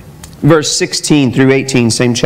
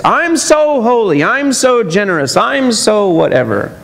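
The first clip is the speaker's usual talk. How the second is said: mild smug boasting; a hint of a self-satisfied Pharisee; smug mock piety; 6 semitones higher than usual. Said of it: "Blowing trumpets".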